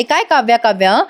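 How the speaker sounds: angry sister confronting her elder sister. Acted. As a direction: demand answers, the pitch climbing with anger. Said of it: "Kavya आता चिडून म्हणते".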